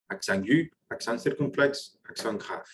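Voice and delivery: each name said the French way; French accent aigu, circumflexe, grave. Shown as a demonstration. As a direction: list the three accents in French. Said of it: "recap of the three names".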